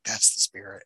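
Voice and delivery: imitating a soft-spoken movie tough guy. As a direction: drop it soft and low. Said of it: "in a soft voice".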